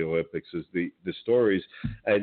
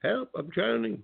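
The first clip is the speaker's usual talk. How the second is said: mock drowning; 8 semitones higher, 4 dB quieter than usual. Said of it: "No, I'm only kidding, folks".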